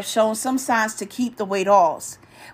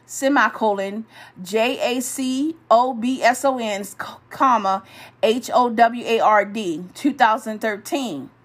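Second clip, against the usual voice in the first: spelling out letter by letter; dictating. Shown as a demonstration. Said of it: "I'm gonna spell it".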